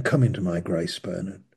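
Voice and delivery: gentle repeated call by name; God calling each listener into grace. Retold or imitated. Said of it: "He's saying".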